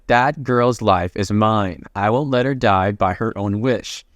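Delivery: low, gloomy vow in a retelling. Acted. Goblin claiming the girl's life, gloomy. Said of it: "gives a gloomy look".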